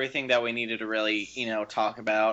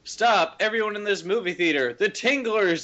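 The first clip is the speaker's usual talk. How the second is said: high, urgent mock announcement; film character's warning; 7 semitones higher than usual. Retelling The Tingler's gimmick to co-hosts, mock alarmed warning. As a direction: imitate a movie character warning the audience, pitch climbing. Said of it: "like, the character saying".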